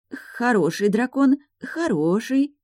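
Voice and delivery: coaxing a dragon without any conviction; wooden voice. Acted. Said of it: "деревянным голосом". (деревянным голосом, выше и медленно)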